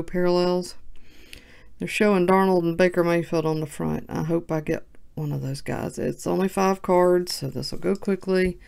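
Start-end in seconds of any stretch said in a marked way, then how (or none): 1.8-8.6 flat robotic monotone; even, mechanical robot delivery. Real, not acted. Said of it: "Why am I talking like a robot?".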